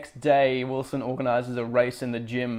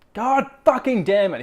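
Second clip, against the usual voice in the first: loud frustrated curse, pitched up; higher, louder mock rage; angry outburst; 9 semitones higher, 6 dB louder than usual. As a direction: blurt it like a kid losing it. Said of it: "He's like".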